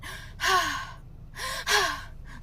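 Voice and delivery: imitated big high sigh; exaggerated drawn-out huffy sighs; childish huffing. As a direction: huff like a sulking five-year-old. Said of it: "like a five-year-old".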